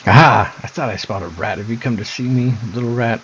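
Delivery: lightly voiced mocking sister, taunting; a sly sister toying with her brother; creepy sister.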